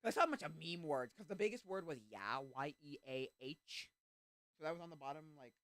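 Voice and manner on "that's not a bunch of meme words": high gasping surprise; gasp, then blurt it high; surprised. Retold or imitated. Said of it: "I remember being like".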